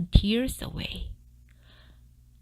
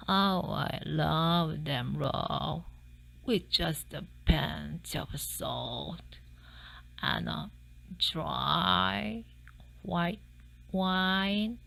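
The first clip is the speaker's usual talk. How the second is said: slow, softer savouring murmur; dreamy murmur; 6 dB quieter, much slower than usual. A narrator's reading. Fox dreaming of eating mice, slow and soft.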